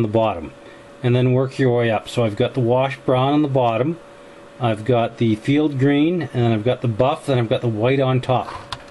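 talking around a paintbrush held in teeth; words muffled by a brush in the mouth. Real, not acted. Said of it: "I'm talking with a s- toothbrush, or toothbrush, paintbrush in my mouth".

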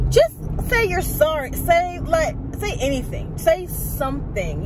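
exasperated urging. Acted. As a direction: urge them as if it were obvious. Exasperated answer to the non-apology.

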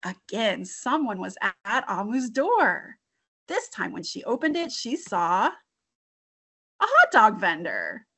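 put-on lively read-aloud for children; storytime reading. Teacher reading a picture book to young kids, animated. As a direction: read the story with bright expression.

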